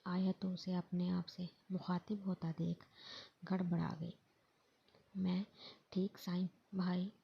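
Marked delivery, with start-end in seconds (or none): 5.2-7.1 hesitant, with small gaps between words; understated tongue-tied hesitation; faltering speech. A narrator's reading. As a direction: falter lightly, pausing after the first words. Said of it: "न जाने क्यों उसकी ज़ुबान लड़खड़ाई थी".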